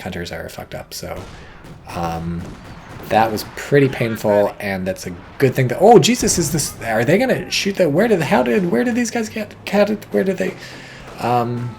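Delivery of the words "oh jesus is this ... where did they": high-pitched flustered stammering; startled confusion. Real, not acted. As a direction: blurt out broken questions, pitch jumping up. Startled by units appearing mid-match.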